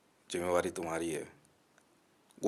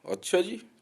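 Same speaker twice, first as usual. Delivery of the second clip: much higher, sneering अच्छा जी with a rising lilt; a mocking falsetto "oh is that so"; sarcastic "oh really"; 12 semitones higher, slower than usual. Answering the Sikh man's claim, high and sneering.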